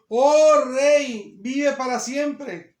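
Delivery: slow, projected quote; solemn, stretched-out address; declaimed scripture. A narrator's reading. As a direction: proclaim it to a king, drawn out. Reads Daniel's answer to the king.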